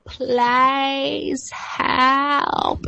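high, pleading plea for help; Leeloo's pleading. Retold or imitated. Retelling the movie, imitating Leeloo's high plea. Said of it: "And she's like".

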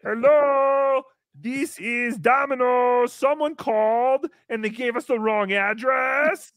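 mock pizza caller. Host acts the Domino's worker calling about an address, mock polite.

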